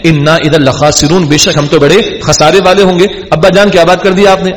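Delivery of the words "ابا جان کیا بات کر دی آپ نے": a hint of a hurt, indignant son; brothers' indignant tone. Brothers protesting to their father Jacob, mildly offended. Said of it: "یہ بھی tone ہے ہمارے یہاں کی".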